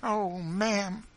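high, loud, desperate appeal; wild. Acted. Fugitive mother to Missus Bird, wild. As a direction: appeal wildly, voice pitched high. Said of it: "she said wildly".

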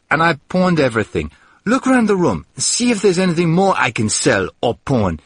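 man rants to the maid about being broke; bitter outburst. Acted. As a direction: rant at her, half-despairing. Man's bitter complaint.

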